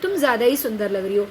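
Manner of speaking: quick, mock praise with a sarcastic edge; sarcastic compliment. Shown as a demonstration. Teacher voicing a sarcastic jab at a friend's makeup, quick and mocking. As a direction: tease her over-done makeup with fake praise. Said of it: "इस भाषा में व्यंग है".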